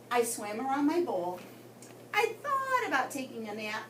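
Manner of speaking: put-on lively read-aloud voice for children; story narration. A narrator's reading. Teacher reading aloud to her class, lively storytelling. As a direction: tell the goldfish diary to the class.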